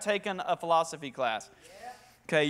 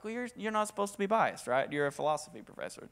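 a soft, lower grumbling aside; muttered protest; 3 semitones lower, 8 dB quieter than usual. Retold or imitated. Student silently objecting to the atheist professor, muttered. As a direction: grumble it under your breath.

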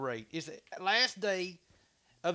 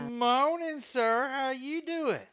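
lively greeting; 8 semitones higher, 7 dB louder, much slower than usual. Real, not acted. Greeting viewer brightly.

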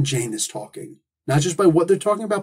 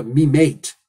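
put-on British accent. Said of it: "his voice doing a".

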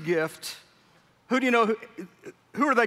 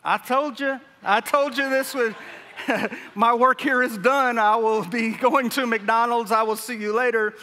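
smug prophet; 2 semitones higher than usual. Retold or imitated. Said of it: "is like".

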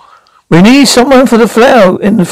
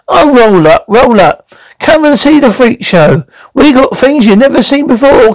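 lightly hawked sideshow patter; freak-show barker; 2 semitones higher than usual. Acted. Showman drumming up a crowd for the freak show, lightly barked patter.

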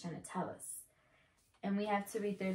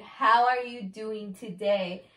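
slower, every word distinct; clear, measured reveal; 4 dB louder, slower than usual. Real, not acted. Telling partner what was missed, slow clear enunciation. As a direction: spell out the answer clearly.

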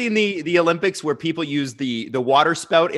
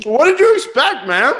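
laughing; 9 semitones higher, 7 dB louder than usual. Real, not acted. Laughing reply to comment.

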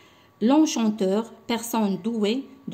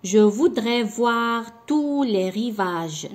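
slow, louder line after a held pause; poem read with pauses; 3 semitones higher, 5 dB louder, much slower than usual. Shown as a demonstration. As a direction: hold the pause, then recite slowly. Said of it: "هنا غادي نوقف". (إلقاء بطيء بعد وقفة طويلة)

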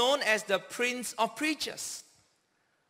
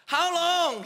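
a raised, pleading cry of how long; anguished cry; 5 semitones higher than usual. Retold or imitated. David crying out to God in despair, a raised anguished plea. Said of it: "he cried out".

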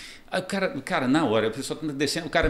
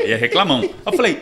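ordinary delivery

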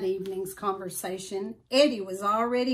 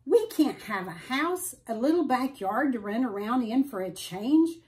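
lightly voiced dog, complaining; grumbling dog. Eddie the dog grumbles to Al wanting a backyard, lightly voiced. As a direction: whine about the small room. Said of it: "Eddie growled".

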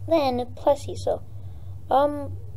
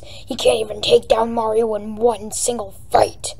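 lightly low villain voice, partly whispered; a kid's mild attempt at a gruff king; Bowser voice; 2 semitones lower than usual. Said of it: "I'm gonna have to do a really low voice".

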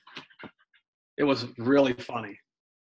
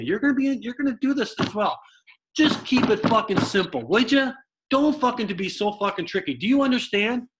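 mock manager rant; 6 semitones higher than usual. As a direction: tear into the rookie like a fed-up manager. Manager's tirade, acted quote.

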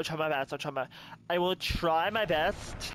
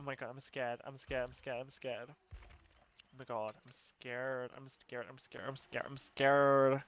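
scared murmur; 3 dB quieter than usual. Real, not acted.

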